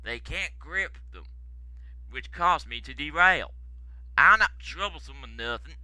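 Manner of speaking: put-on soft, plaintive American-accented excuse; mournful. Stanley apologising to the controller, mournful and soft. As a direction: plead quietly that it isn't your fault. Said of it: "mourned Stanley".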